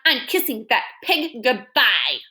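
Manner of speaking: slow, grimly satisfied; grim Eugenia. Acted. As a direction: say it slowly, relishing. Eugenia final line.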